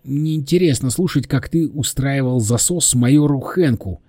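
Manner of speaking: a touch of impatience; cutting someone off. Acted. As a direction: cut in on the rambler. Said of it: "оборвал его Саша".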